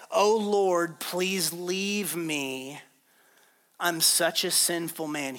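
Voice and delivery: slow, drawn-out plea to the Lord; humbled plea. Retold or imitated. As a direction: beg him, stretching out the words. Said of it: "fell to his knees before Jesus".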